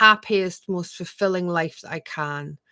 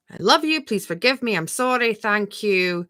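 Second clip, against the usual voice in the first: tender mantra; 3 semitones higher than usual. Shown as a demonstration. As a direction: say it like a prayer to yourself. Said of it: "you can just sit and go".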